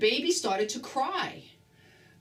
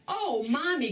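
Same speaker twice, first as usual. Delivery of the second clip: happily; 5 semitones higher than usual. Acted. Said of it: "Grover said happily".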